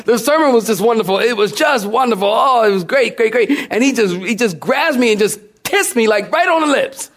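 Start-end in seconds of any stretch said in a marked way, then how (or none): 0.0-3.5 higher and fast, gushing about the sermon; gushing praise. Retold or imitated. Foreign visitor praising the preacher, excited and fast. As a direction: rush the compliments like a thrilled fan. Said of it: "he's telling me in his own language".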